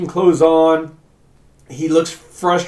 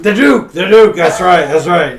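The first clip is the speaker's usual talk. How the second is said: eager agreement; 4 semitones higher, 10 dB louder than usual. Acted.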